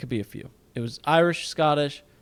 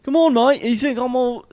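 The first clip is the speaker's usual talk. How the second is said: loud, high-pitched fake Aussie; mock Australian accent; 11 semitones higher, 9 dB louder than usual. Co-host showing off accents for entertainment, loud mock Australian. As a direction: blurt it in broad Australian. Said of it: "that is Australian".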